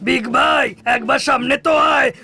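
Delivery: yelling for him to show his face; angry shout. Acted. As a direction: shout out a challenge to fight. Shouting challenge at Big Bhai.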